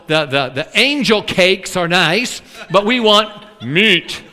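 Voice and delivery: a touch of sass; sassy demand. Acted. Preacher voices Israelites sassily demanding meat. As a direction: ask for meat like a picky diner. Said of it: "get a little bit, you know, sassy and say".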